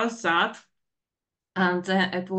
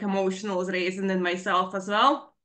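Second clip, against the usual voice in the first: ordinary talk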